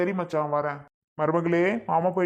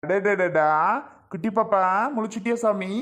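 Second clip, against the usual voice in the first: cooing, pitch lifting on the endearments; delighted baby talk; 3 semitones higher than usual. Acted. Uncle greeting his just-woken niece or nephew, delighted cooing. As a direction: fuss happily over a little one.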